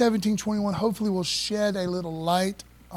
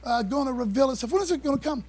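raised-pitch, eager questioning Pharisee; 6 semitones higher than usual. Retold or imitated. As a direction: pester Jesus with the question, pitched up. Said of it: "a Pharisee comes up to Jesus like".

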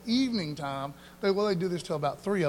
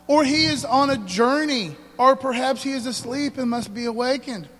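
loud reading; 3 semitones higher, 5 dB louder than usual. Acted. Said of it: "loud scripture reading".

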